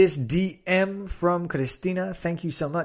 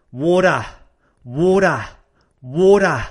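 Australian WATER as WAW-dah; Australian pronunciation with open, r-less ending; Australian accent; 3 semitones higher, 6 dB louder than usual. Shown as a demonstration. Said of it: "in Australia, people would probably say".

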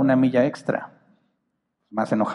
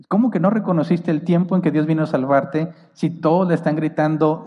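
raised in disbelief; how can that be, questioned; incredulous; 3 semitones higher than usual. Acted. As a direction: ask it as if it makes no sense. Repeats verse in disbelief.

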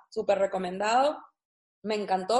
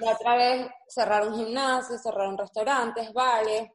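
hablando con la boca llena. Real, not acted. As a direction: masticando mientras habla. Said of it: "Estoy hablando con la boca llena". (con la boca llena de galleta)

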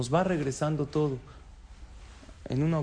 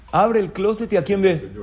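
building suspense; 4 semitones higher, 8 dB louder than usual. A narrator's reading. Suspense before reveal.

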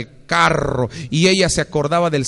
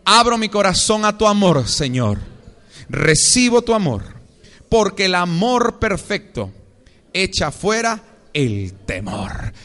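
prayer declaration. Acted. Y diga conmigo.

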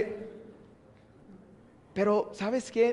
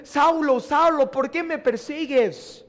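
voice of Jesus; 4 semitones higher than usual. Acted. Voice of Jesus calling Saul.

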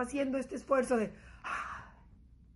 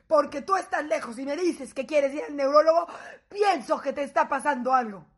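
husband's voice reply; 7 dB louder than usual. Retold or imitated. Husband scolding his wife over her scare, loud. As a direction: lecture her like a worried husband.

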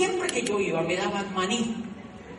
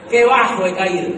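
qué bajo he caído cried out much louder, qué hit hard; loud mock cry; 11 dB louder than usual. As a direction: belt it out as a theatrical outcry of shame. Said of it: "decía mi corazón".

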